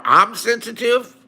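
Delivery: slow, disbelieving question; incredulous echo. Real, not acted. Answering Liz's accusation in chat, incredulous echo. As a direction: throw the word back as a question.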